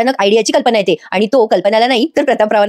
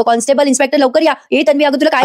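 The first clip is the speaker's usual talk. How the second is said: higher-pitched, urgent mock call for help; panicked calling out; 4 semitones higher than usual. Husband calling guards for his fainted wife, panicked and higher. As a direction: call the guards as if she has collapsed. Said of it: "मोठ्याने आरडाओरडा करायला लागतो".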